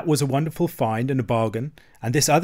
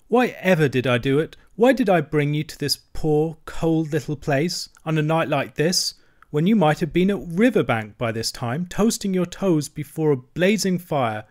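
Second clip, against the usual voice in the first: higher-pitched, self-reproaching lament; dismally; 4 semitones higher than usual. Acted. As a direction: mourn your poor little home aloud. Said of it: "he cried dismally".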